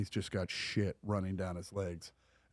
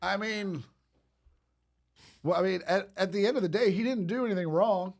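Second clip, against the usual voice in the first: laughing through it; 10 semitones higher, 6 dB louder than usual. Real, not acted. Still laughing while defending him.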